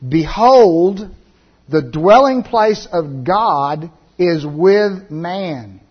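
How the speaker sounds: loud voice. Acted. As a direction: proclaim it from the throne, slow and emphatic. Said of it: "I heard a loud voice from the throne".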